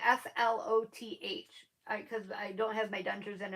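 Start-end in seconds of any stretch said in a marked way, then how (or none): 0.0-1.7 "S L O T H" given letter by letter; spelled out clearly. Real, not acted. Clarifying a lisped word for viewers, each letter of "S L O T H" said separately. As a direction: spell out "S L O T H" so nobody mishears it. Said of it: "hard to understand what I'm saying".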